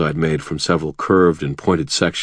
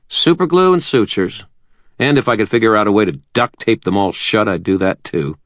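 lightly raised, quick nervous doctor; a slightly higher, hurried young doctor; Butters voice; 5 semitones higher, 4 dB louder than usual. Acted.

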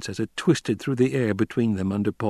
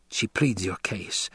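quiet aside; 5 dB quieter, slower than usual. A narrator's reading. Jessica aside, softly.

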